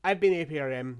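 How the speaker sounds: high, loud gobbling sign-off; turkey call impression. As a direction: squawk it out like a turkey. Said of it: "That was me doing my turkey call impression".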